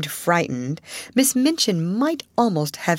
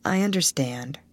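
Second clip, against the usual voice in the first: choking it back; 4 dB quieter than usual. Acted. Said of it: "as if she had gulped down something".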